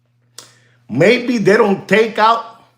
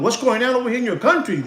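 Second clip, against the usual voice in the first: mock shocked tourist. Shown as a demonstration. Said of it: "you tell 'em".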